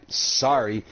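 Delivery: low, drawn-out mock apology; snarling attitude. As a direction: imitate a snotty clerk's insincere apology. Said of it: "with a snarling attitude".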